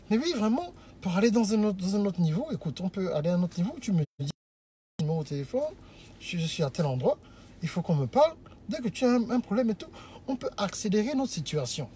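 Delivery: low, soft persuasive demo; acted smooth suitor, voice held down; calm, composed courting. Shown as a demonstration. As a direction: make the proposal gently and discreetly. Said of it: "tranquillement, avec une voix".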